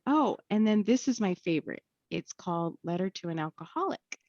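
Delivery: lightly voiced cheerful helper; eager lady voice. Lady continues.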